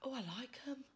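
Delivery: high, delighted over the sunglasses; giddy, pitch bouncing up; thrilled to keep the sunglasses; excited. Real, not acted. Trying on the sunglasses.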